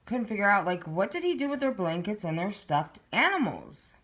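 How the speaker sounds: talking with food in mouth; mouth full. Real, not acted. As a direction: speak around something in your mouth. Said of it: "Sorry, I have something in my mouth".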